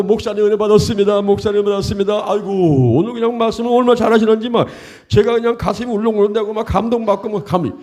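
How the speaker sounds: high, effusive congregant; hammed-up gushing thanks; gushing churchgoer. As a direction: act out admirers showering the pastor with praise. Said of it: "이래버리면요".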